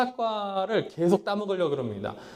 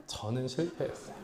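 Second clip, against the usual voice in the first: "저는 실패했어요" repeated much softer, fading, with a small rise at the end; soft echo; 3 semitones lower, 7 dB quieter than usual. Real, not acted. Preacher repeating his confession of failure, hushed and soft. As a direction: let "저는 실패했어요" fall away to a hush.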